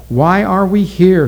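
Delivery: loud, high, slow ritual call; crying out. A narrator's reading. Witch doctor addresses his people, crying out. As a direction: call out to a whole crowd. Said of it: "he cried".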